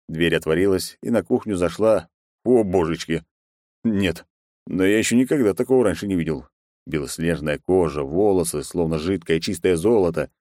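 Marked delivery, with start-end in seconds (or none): none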